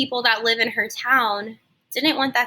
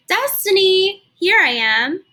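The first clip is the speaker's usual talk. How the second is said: put-on louder, higher call across to the girl; 8 semitones higher, 6 dB louder, slower than usual. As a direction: call out so she hears you next door. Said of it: "Missus Wade called from her stoop".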